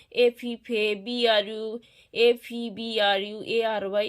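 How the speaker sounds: one continuous string of letters; letters run together. Shown as a demonstration. Teacher showing pupils the method to avoid, letters run together. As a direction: spell it straight through without syllable breaks. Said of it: "তোমরা যদি একসাথে পড়ো".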